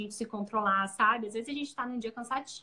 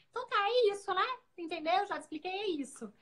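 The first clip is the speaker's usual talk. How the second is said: her own habit; 5 semitones higher than usual. Retold or imitated. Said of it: "pra mim era tão automático falar isso".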